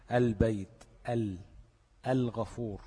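clear, separate ل in البيت and الغفور; lam pronounced. Shown as a demonstration. Teacher giving students examples, البيت and الغفور with clear L. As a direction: sound the L of ال fully before the next consonant. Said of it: "كل دي تنطق فيها الإيه؟".

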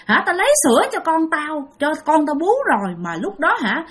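high, eerie ghost woman's voice; a ghost mother begs four young men for milk, high and eerie. Retold or imitated. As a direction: speak high and pleading like a hungry ghost mother. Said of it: "Thì bà nói rằng".

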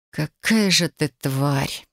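slow, hoarse rasping voice. Acted. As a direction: rasp it out in disgust. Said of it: "прохрипела я".

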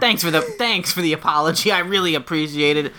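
lightly voiced goofy demon; a touch of a silly demon. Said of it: "demon character Brad's developing".

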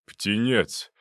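loud, slow mentor's bark. Acted. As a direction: snap at the intern, patience gone. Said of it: "гаркнул Зубов".

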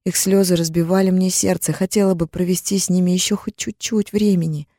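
ordinary delivery, nothing marked

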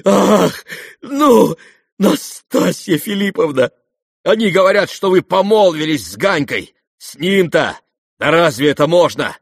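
loud, high, rushing elation; frantic joy. Acted. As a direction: babble on beside yourself. Rogozhin raving with joy.

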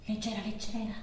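soft, low and weightless; faint, drifting. Acted. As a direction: let the voice sink as if drifting away. Recalls drifting toward death. (flebile, quasi svanendo)

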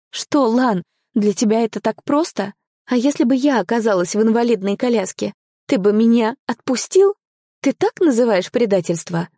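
heated, hurt reproach; indignant outburst. Acted. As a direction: throw the questions back angrily. Hurt, challenging partner in quarrel.

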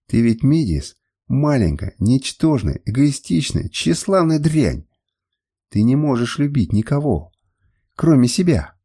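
contempt building word by word; scornful tirade. Acted. Jilted master berates the woman, scornful. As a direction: spit out each insult, rising to a slow last one.

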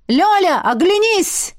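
high, loud booming dragon call; dragon's trumpeting roar. A narrator's reading. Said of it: "трубный рёв дракона". (трубный рёв дракона)

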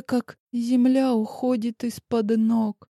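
ordinary delivery, nothing marked

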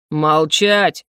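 низкий протяжный рык на слове; прикажи молчать, будто зверь; рычащий приказ. Acted. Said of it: "вновь зарычал Арвендел". (грозно, с рыком)

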